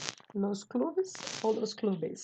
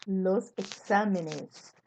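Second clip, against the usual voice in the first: "exámenes" stressed on the XÁ, drawn out slowly; stress on antepenultimate syllable; much slower than usual. Shown as a demonstration. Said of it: "antepenúltima". ("exámenes" devagar, com a antepenúltima sílaba tônica)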